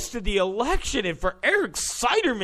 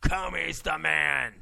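mock fawning; 3 semitones lower, 6 dB quieter, slower than usual. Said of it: "They were like".

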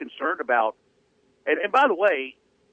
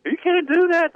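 students yelling in protest; shouting; 6 dB louder than usual. Retold or imitated. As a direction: shout it out, outraged. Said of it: "All the students were screaming".

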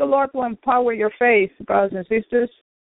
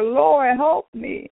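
higher, raised cry of Lord, help me; high desperate cry, not shouted; mock scream; 5 semitones higher, much slower than usual. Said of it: "I screamed and I said".

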